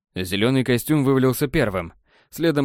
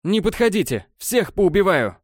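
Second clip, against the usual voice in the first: high-pitched threatening cry; acted shout; 8 semitones higher than usual. A narrator's reading. Crazed elf with a pistol, shouting threats. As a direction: warn them off in a raised, frantic pitch. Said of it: "закричал он".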